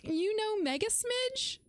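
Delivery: high, slow, amazed question; surprised. Real, not acted. Streamer surprised that chatters know each other.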